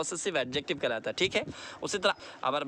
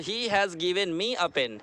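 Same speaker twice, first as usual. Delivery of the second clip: slowly, word by word; slow teaching read; much slower than usual. Shown as a demonstration. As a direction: spell it out slowly for the class. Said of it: "Me क्या होगा?".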